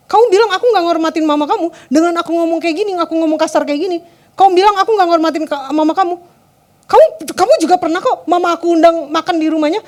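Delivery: acted-out scolding, mildly heated; mock angry. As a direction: imitate a partner throwing past faults back. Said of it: "segitu marahnya".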